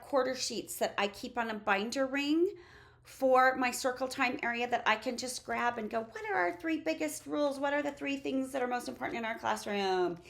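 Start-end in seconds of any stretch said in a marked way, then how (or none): 6.0-10.2 lightly voiced teacher addressing her class, starting higher; bright-eyed classroom question, pitch stepping down; teacher quizzing class. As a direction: ask young pupils to recite the rules.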